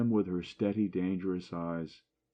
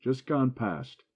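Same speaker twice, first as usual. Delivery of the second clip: loud; 6 semitones higher, 3 dB louder, slower than usual. A narrator's reading. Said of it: "exclaimed Joe loudly".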